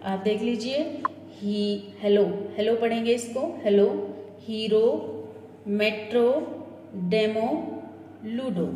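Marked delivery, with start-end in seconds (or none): 2.0-8.7 "हेलो" ending on a long pure o; model pronunciation. Shown as a demonstration. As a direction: model the final o clearly. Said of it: "इस तरह से last में ओ आया". (अंत में "ओ" का साफ़ उच्चारण)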